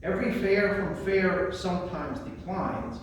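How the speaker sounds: measured, unhurried recitation of a sonnet; poem reading. Acted. Presenter reads Sonnet eighteen to the audience, recited as a poem. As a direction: read each line as verse with a pause after it.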